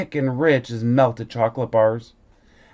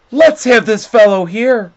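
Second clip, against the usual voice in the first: higher and louder, jolly Santa; Santa choosing; 6 semitones higher, 6 dB louder than usual. A narrator's reading. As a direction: Santa picks out the boy.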